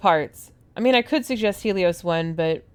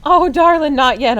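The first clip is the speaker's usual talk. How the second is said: playful darling; 6 semitones higher, 9 dB louder than usual. Acted. Playful reply to Jack.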